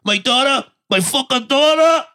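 high-pitched, furious repeated cry; enraged father. Retold or imitated. Retelling a father's revenge beating, enraged. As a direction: rage it out, punching each phrase.

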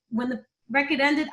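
usual speaking voice

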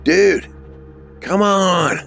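high-pitched exasperated call. A narrator's reading. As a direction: call after him as he gets away. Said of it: "Marco called out, running behind him".

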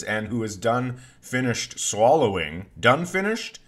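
"done finished" stretched with a rising tune; doubled-up emphasis. Shown as a demonstration. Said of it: "I double up when I'm serious".

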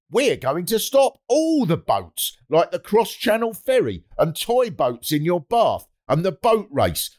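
mock politician's pledge. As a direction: announce it as an overeager party pledge. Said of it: "so they say".

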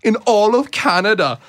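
put-on cheerful Canadian hockey girl accent, lightly done. Cohost imitating an East Coast Canadian girl, light Canadian accent. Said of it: "Like a real East Coast girl".

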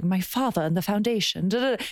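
lightly imitated Russian-German accent; Anna Delvey. Host imitating friend's party trick, Russian-German accent. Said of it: "Russian German accent out of nowhere".

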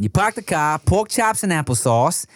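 light Boston accent on "park the car". Shown as a demonstration. Boston accent, building the Aussie accent step by step. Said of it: "That's Boston".

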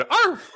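high little yap; a timid puppy yap; weak dog bark. Retold or imitated. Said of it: "you better do a little bit better than".

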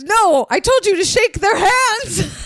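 high laughing quote. Real, not acted. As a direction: laugh through the alien line. Quoting alien, laughing.

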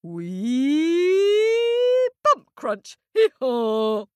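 high, loud donkey cry; tumbling donkey. Acted. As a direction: cry out as you tumble away. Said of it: "said the donkey".

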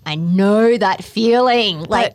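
fed-up mum blowing up, loud and high; exasperated outburst. Acted. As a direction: huff it out, rising to an incredulous complaint. Acting out a fed-up mum's huff.

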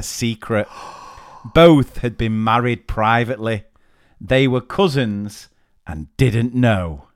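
measured, deliberate reading; careful storytelling delivery; story read aloud. Acted. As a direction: read out a juicy anecdote with pauses. Reads out a listener's story.

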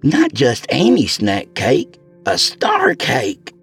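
very slow, savoring each word; drawn-out longing. A narrator's reading. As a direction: savor the words star cake. Tammy savoring.

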